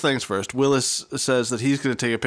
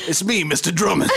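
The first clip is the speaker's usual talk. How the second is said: Mister Drummond voice; 3 semitones higher than usual. Pretend. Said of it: "This is what I sound like when I'm not talking to the children".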